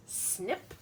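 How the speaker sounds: soft little snip for the earwig's pinchers; mock snip sound. Teacher voices the earwig's pinchers for kids, soft mock snip. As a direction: snip it like tiny scissors. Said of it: "It says".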